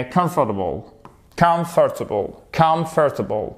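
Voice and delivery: comfortable said KUMF-tuh-bul; English pronunciation demo. Shown as a demonstration. Teacher repeating comfortable for the class. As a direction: model comfortable cleanly, stress first.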